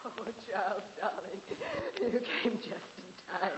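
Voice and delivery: soft relief. Acted. Dina softly relieved as Charles arrives. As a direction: melt with quiet relief.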